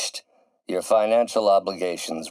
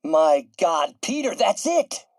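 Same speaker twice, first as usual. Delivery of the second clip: high, louder burst of sudden realization; excited breakthrough; 10 semitones higher, 4 dB louder than usual. Acted. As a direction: exclaim it like you just solved it. Scientist exclaims at sudden breakthrough.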